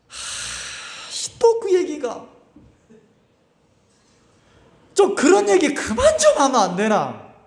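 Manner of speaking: hammed-up irritation, breaking into a laugh; mock annoyance. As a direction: play the bored churchgoer fed up with God-talk. Mocking annoyance at church talk.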